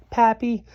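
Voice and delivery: "Papillon" said the French way, pa-pee-yon; French word. Shown as a demonstration. Teaching how to say "Papillon" in French. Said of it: "You say it like this".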